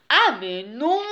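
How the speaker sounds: put-on storybook bear objection, not shouted; thundered retort, understated. A narrator's reading. Dirty bear argues back at the she-bear, mock thundering. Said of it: "stonna l'ours très".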